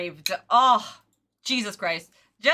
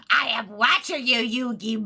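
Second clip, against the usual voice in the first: Merrick voice. Retold or imitated. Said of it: "that Merrick jump scare right there".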